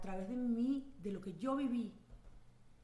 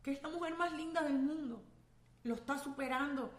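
quoting her mother; 4 semitones higher than usual. Retold or imitated. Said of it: "mi mamá me decía".

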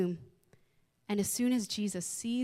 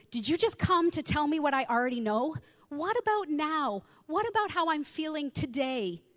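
hurt, disappointed plea; 5 semitones higher than usual. Retold or imitated. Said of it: "disappointment in her tone".

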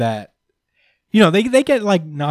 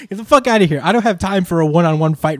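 dismissive Big Mom; 4 semitones higher, 5 dB louder, faster than usual. Retold or imitated. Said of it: "she was basically like".

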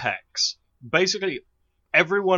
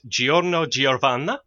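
put-on terrible Italian accent. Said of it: "I'm gonna do terrible Italian accents".

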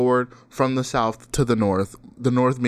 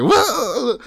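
high, loud startled whoa; 11 semitones higher, 4 dB louder than usual. Retold or imitated. Mimicking the startled teen caught in front of him, high whoa. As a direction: jump back like a scared kid. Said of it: "He's like".

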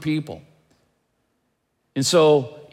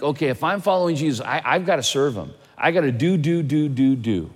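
inner busy voice. Retold or imitated. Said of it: "Do you naturally think".

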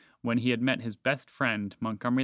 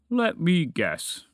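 slow, raised, drawn-out dragon voice; knowing dragon; 5 semitones higher, 4 dB louder, much slower than usual. A narrator's reading. Dragon replies to arguing mouse, slow and knowing. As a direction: stretch it out knowingly. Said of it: "the dragon replied".

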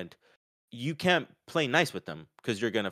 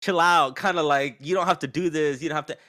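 laid-back brush-off; 5 semitones higher, 6 dB louder than usual. Retold or imitated. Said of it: "He was like".

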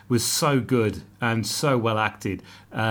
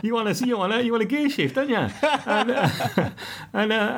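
laughing; 9 semitones higher than usual. Real, not acted. Joking through laughter.

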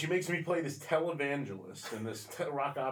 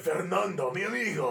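soap opera hero; 4 semitones higher, 6 dB louder than usual. Retold or imitated. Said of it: "It's like".

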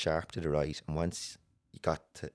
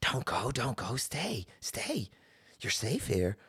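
high, swooping spirit voice; imitated clinging spirits; 6 semitones higher, slower than usual. Dark spirits pulling someone back, high coaxing imitation. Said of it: "every time it's like".

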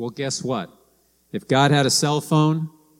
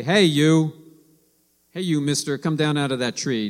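mock brusque call; 2 semitones higher than usual. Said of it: "Yeshua didn't say".

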